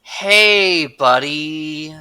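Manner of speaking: high, loud coaxing "hey buddy"; coaxing the beast. Pretend. Player's character trying to soothe the monster, loud high coaxing. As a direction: call to it like a friendly stray. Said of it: "Rekatap's like".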